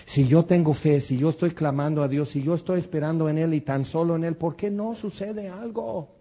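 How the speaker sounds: a hint of a frustrated believer begging answers; imitated plea. Preacher voicing a believer who questions God, pleading. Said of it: "Y dices".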